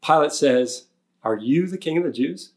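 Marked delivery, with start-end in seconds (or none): 1.2-2.5 "you" leaned on, rising question; stress on you. Retold or imitated. Preacher voicing Pilate questioning Jesus, stress on "you". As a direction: put the weight on "you" in "Are you the king of the Jews?". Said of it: "I say it that way because the "you" is emphatic".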